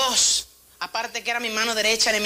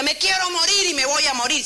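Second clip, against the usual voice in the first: higher-pitched dramatic wail; hammed-up lament; mock despair; 7 semitones higher, 4 dB louder than usual. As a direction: play up a melodramatic death wish. Quoting Elijah's despair to congregation.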